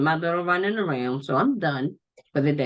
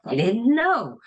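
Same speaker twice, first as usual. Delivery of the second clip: mildly imitating astonished coworkers, pitch raised; mock amazement, a touch high; shocked and amazed; 4 semitones higher, slower than usual. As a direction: play their surprise lightly, a rise then a fall on "know". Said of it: "they're all so shocked and amazed".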